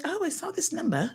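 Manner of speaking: lightly voiced office woman returning a call; imitating London office worker. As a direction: start high, then ease down, as a quoted caller. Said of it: "She's like".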